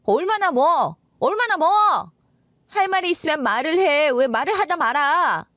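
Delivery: heated, exasperated wife pressing for an answer; confrontational wife. Acted. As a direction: cut in and dare the husband to finish. Acted wife challenges husband to finish.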